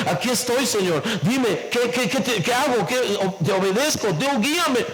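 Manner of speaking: reenacted ready obedience; eager submission. Preacher reenacts presenting himself to God in prayer, eagerly submissive. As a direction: report for duty, questions tumbling out. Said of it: "me posé con esa actitud".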